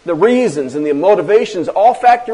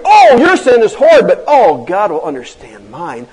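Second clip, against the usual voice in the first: mock self-righteous; 5 dB louder than usual. Mocking the self-righteous sinner.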